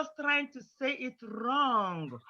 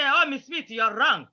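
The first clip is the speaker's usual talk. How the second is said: louder, blunt contradiction; rude correction; 2 semitones higher, 5 dB louder than usual. Shown as a demonstration. Pupil rudely correcting Miss Smith to her face, loud and blunt. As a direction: tell the teacher off bluntly. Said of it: "Don't be rude".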